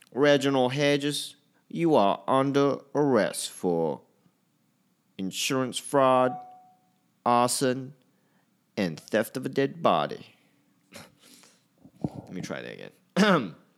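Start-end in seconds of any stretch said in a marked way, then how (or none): 0.2-10.3 bad Southern US accent, pitched up. Speaker does a line to show off an accent, in a bad american south accent. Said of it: "I discovered I can do a bad American South accent".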